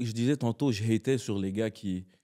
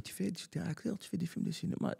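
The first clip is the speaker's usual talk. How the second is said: put-on high, soft, breathy child asking in awe; little nephew voice; 7 semitones higher, 10 dB quieter than usual. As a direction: quietly play a wide-eyed five-year-old. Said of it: "mon neveu, il me dit".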